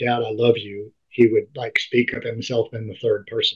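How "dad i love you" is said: ordinary delivery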